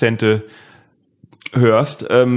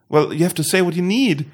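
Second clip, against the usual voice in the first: higher, pleading English voice of a helpful stranger; exasperated passer-by; 7 semitones higher than usual. Retold or imitated. English passer-by losing patience with the prank, higher and pleading. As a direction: raise the voice, growing exasperated but polite. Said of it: "Und die Person hat gesagt".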